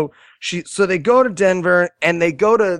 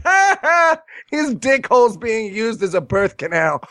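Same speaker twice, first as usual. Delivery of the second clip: mock audience laughter; 3 semitones higher than usual. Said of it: "They were like".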